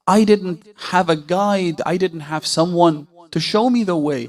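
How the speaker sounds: earnest protest. Acted. Ibn Mahziyar answers the Imam's reproach, earnestly protesting. Acted reply pleading with the Imam.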